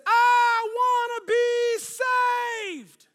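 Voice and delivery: very high, slow, full-volume scream; re-enacted desperate shout from the crowd; drawn-out yell. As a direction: holler it out, stretching every word. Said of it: "this guy yells out".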